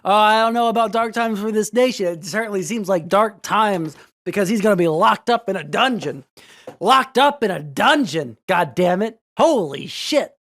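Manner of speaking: gleeful rant. Real, not acted. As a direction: gloat over him getting locked up.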